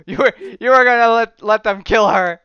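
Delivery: hammed-up indignant shout; acted outraged accusation. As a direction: accuse them at the top of your voice. Acted accusation in comic retelling.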